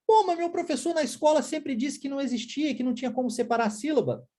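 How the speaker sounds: a hint of a student arguing back; objecting student. Student objects to teacher Marcelo about syllables, mild protest.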